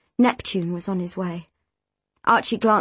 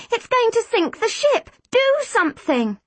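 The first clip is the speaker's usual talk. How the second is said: high, frantic warning; alarmed cry, pitched right up; panicked plea; 13 semitones higher than usual. A narrator's reading. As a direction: beg for action in rising panic. Panic as the ship sinks.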